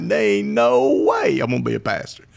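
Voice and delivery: high, incredulous mock refusal; retold laughing disbelief. Telling the lady no pastor job, laughing disbelief. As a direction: reenact scoffing at the idea. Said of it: "I started laughing like".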